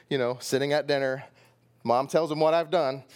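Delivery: ordinary delivery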